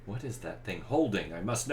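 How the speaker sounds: rising, eager and pressing; burning to know; eager curiosity. Acted. GM voices curious character.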